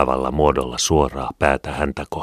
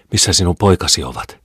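demanding call, higher and louder; mild shout; 4 semitones higher, 6 dB louder than usual. A narrator's reading. Angry neighbour bursting in without a greeting, shouting her demand. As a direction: call it out sharply as a question. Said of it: "huusi hän".

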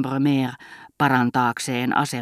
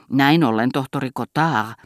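solemn, almost threatening. Acted. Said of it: "hän sanoi juhlallisesti, melkein uhkaavalla äänellä".

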